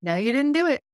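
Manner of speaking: mock contradiction from the conscience; taunting inner voice. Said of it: "that thing in me going".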